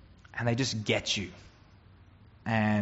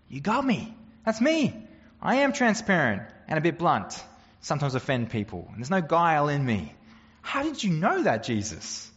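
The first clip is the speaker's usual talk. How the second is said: much higher, astonished and eager; amazed admission; 4 semitones higher than usual. Acted. Nathanael answering Jesus, mildly acted high amazement. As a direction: caught out and thrilled about it. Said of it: "Nathanael looks at Jesus and says".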